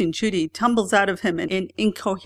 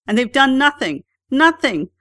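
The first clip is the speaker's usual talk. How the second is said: upset; 7 semitones higher, 7 dB louder than usual. A narrator's reading. Frantic friend complaining.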